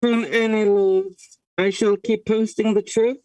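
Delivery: talking into a mug; muffled into a mug. Real, not acted. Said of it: "I'm leaning over, talking into a mug".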